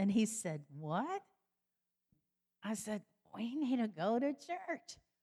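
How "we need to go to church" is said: put-on tipsy, sozzled, drunken voice. Retelling a Christmas exchange with a family member, imitating being drunk. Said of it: "this is my imitation of drunk".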